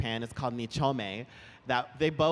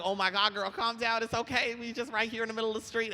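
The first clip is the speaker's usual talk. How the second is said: calming voice; 8 semitones higher than usual. Retold or imitated. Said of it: "I was like".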